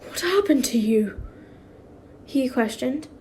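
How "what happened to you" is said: breathy whisper; whispered question. A narrator's reading. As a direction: ask it in a whisper. Reading, quiet question.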